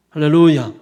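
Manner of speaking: very loud pulpit shout; calling out hallelujah. Real, not acted. Pastor rousing the congregation after preaching on grace, loud hallelujah call. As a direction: hurl it out so the congregation answers.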